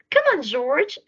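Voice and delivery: excited friends urging him; eager animals. A narrator's reading.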